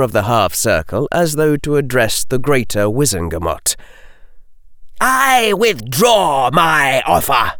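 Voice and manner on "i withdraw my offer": higher, slow declaring shout. A narrator's reading. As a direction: proclaim it to the whole court. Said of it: "shouted the Lord of Malfoy".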